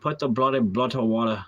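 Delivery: mock Scottish or British put-on accent; punchy, playful Scottish accent; aggressive Scottish accent. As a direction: come at it like a brash Scot, lightly. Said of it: "come at it with aggressiveness".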